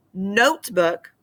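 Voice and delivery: notebook with NOTE stronger; NOTE-book, carefully demonstrated; stress on first syllable. Shown as a demonstration. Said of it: "first syllable is the accented one".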